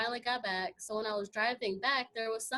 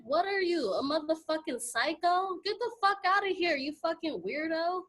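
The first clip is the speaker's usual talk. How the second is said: angry yell; 4 semitones higher than usual. Retold or imitated. She yells at the man who killed the bird, furious and high. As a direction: bark it at him like you're disgusted. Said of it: "So I was like".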